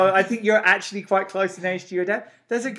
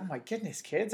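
exasperated; 3 semitones higher, 10 dB quieter than usual. Retold or imitated. Exasperated reply to kids' guesses.

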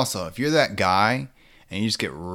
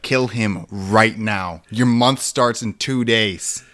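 urgent demand; 5 dB louder, much slower than usual. Retold or imitated. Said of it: "They'd be like".

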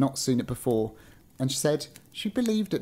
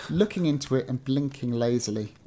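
measured storybook reading; story narration; 2 semitones lower than usual. A narrator's reading. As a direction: read it out like an old-fashioned tale. Reads a story aloud.

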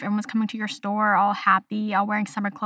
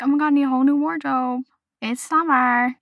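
higher-pitched, playfully gushing; mock shopping excitement; 5 semitones higher, 3 dB louder than usual. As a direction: gush like an eager shopper. Mimicking excited urge to shop.

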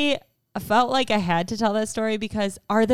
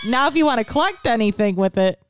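playful shout; 3 semitones higher, 4 dB louder than usual. Real, not acted. Jokey shout.

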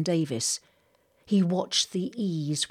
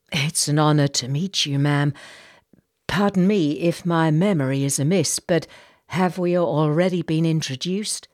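courteous captain, a touch louder; Jacob, polite; 6 dB louder than usual. Acted. Captain asking the lady if they've met, polite and restrained. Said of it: "Jacob asked".

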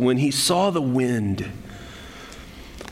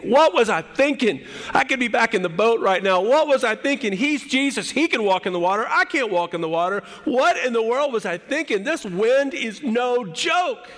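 high-pitched, rattled self-reproach; panicked second thoughts; 8 semitones higher than usual. Acted. Peter regretting leaving the boat for the wind, panicking. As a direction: berate yourself in rising panic. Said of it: "Peter began to think".

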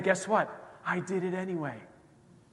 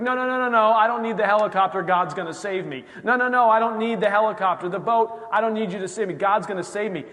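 higher, louder, insistent refusal of help; stubborn believer; 5 semitones higher, 6 dB louder than usual. Retold or imitated. A proud believer on the flooded roof refusing the helicopter, loud and insistent. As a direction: wave off the rescue, stubbornly sure.

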